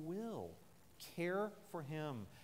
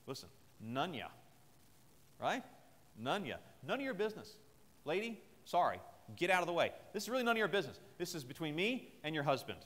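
brusque dismissal. Retold or imitated. David brushing Abigail aside, curt mock anger. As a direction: snap at her to get out of the way. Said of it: "What could David have said?".

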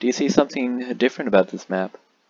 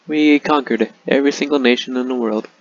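triumphant shout; 3 semitones higher, 7 dB louder than usual. Acted. Triumphant victory announcement.

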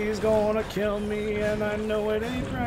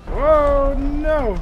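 startled yelp; 7 semitones higher, 9 dB louder than usual. Real, not acted. Creepy figure appears suddenly.

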